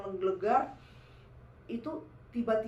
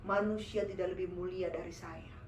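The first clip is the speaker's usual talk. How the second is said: possessing jinn; 5 semitones lower, 4 dB quieter than usual. Retold or imitated. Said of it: "Dia kata".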